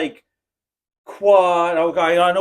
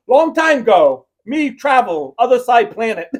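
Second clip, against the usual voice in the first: lightly voiced mock broken English, louder at the start; 2 semitones higher, 5 dB louder than usual. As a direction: parody a garbled text message read aloud. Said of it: "Why do I sound like an Indian?".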